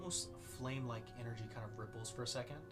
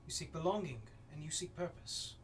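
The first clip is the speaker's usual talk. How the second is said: whispered then rising ominous voice; whisper, then swell with menace; eldritch horror; 3 semitones higher than usual. Acted. Voice from the flames speaks.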